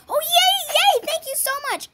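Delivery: high squealing yay; delighted. Real, not acted. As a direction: squeal with joy. Trade accepted.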